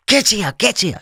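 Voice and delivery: high, insistent calling; retold urgent shout. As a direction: bark the summons across the street. Man urgently summons again.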